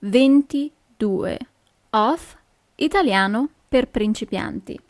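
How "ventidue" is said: ventidue said slowly, syllable by syllable; slow Italian number. Shown as a demonstration. Teacher modelling ventidue slowly for beginners. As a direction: spell out ventidue slowly for learners. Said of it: "lesson twenty-two".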